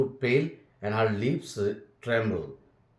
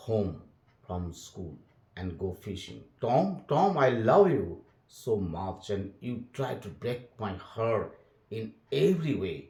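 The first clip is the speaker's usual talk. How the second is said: expressive read-aloud for students; storybook narration with voiced characters; story reading. A narrator's reading. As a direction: read the tale to the class with feeling. Teacher reads story aloud.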